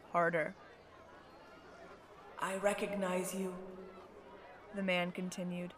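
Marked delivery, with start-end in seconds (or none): 2.4-3.6 put-on low, soft old man; grave old man. A narrator's reading. Old man recognizing the girl, low and soft.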